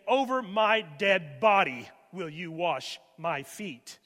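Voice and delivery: slow, firm refusal with a little extra weight; emphatic refusal. Retold or imitated. Peter refusing Jesus washing his feet, slow emphatic protest. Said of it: "is the emphatic never".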